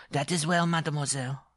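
high, loud, curt interruption; dwarf breaking in. Acted. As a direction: cut her off as an affronted little man. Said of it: "the dwarf broke in".

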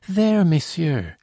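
high, slow anxious plea; deep anxiety. A narrator's reading. Girl anxiously appeals to monsieur, high and slow. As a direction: let the worry stretch each word. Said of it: "in tones of deep anxiety".

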